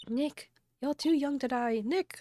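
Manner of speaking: hammed-up alarm; worried calling out. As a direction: call his name as if he might be hurt. Calling out to friend in danger.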